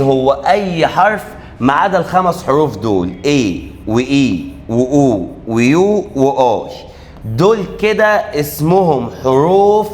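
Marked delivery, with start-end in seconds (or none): 3.2-6.7 slow spelling out. Shown as a demonstration. Teacher listing the vowel letters.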